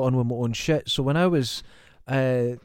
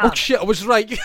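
loud, high burst of triumph; real delighted shout; excited shout; 8 semitones higher, 6 dB louder than usual. Real, not acted. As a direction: shout it out, thrilled to be right. Guessed the name correctly.

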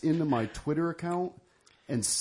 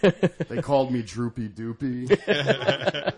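slow; 3 semitones lower, much slower than usual. Acted. Mock sad memory.

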